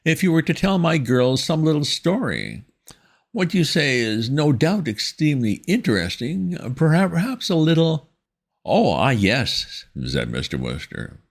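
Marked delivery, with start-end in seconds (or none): 0.0-8.1 high, prim schoolmistress tone; stern headmistress voice. A narrator's reading. Miss Tomlinson voiced in story. 8.6-9.8 high, slow, fumbling toff; flustered young gentleman. A narrator's reading. Wooster voiced in story.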